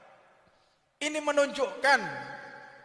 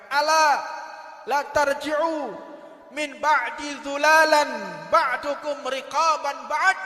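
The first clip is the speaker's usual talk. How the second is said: slow, louder recited warning in Arabic; loud Arabic recitation; 4 dB louder, slower than usual. Retold or imitated. Preacher reciting the Prophet's warning to the congregation, loud and slow. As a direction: proclaim the Prophet's warning slowly, with weight.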